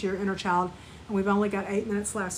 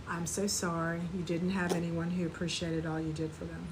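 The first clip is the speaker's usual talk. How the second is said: softer, gentler echo of the line; softer compassion; 4 semitones lower, 6 dB quieter than usual. Shown as a demonstration. Teacher guides students to repeat it softly. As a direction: say it back quietly, to yourself. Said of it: "Now you say".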